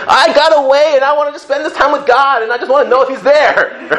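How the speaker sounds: high, laughing annoyed outburst; hammed-up grumble about being interrupted; mock annoyed rant. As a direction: play up the irritation at being disturbed. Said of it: "'Cause I'm like".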